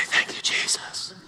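tiny whispered thank-you. Shown as a demonstration. Showing how the healed man didn't thank Jesus, whispered. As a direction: whisper it, the opposite of loud praise. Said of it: "it says in a loud voice, he thanked him".

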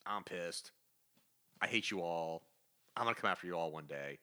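low, subdued villain threats; deadpan, deflated menace; Doctor Doom sulking. Acted. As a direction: grumble low, pausing between each threat. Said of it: "Doctor Doom's like".

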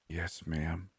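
a frail woman eagerly answering her visitor, weak voice; weak but eager. A narrator's reading. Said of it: "Her voice was weak, yet enthusiastic".

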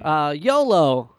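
Christoph Waltz. Retold or imitated. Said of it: "Christoph Waltz trying to use slash comprehend American slang".

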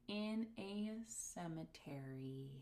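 whispered, slow; whispering. Real, not acted. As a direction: whisper the scandal. Whispered scandalous detail.

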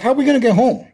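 imitating her child self; worried kid voice. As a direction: play herself at seven, fretful. Child worried stranded at restaurant.

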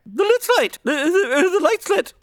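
flustered alarm. Acted. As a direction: trip over your words in alarm. Doc flustered at lit house.

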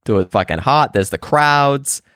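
broad Boston bro; Boston accent. Acted. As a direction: complain like a Boston guy. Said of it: "you do, you do that accent".

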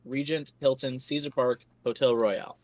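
one unbroken breath, running out of air; all in one breath. Shown as a demonstration. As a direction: rattle off the long name without breathing. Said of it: "I'm gonna see if I can do this in one breath".

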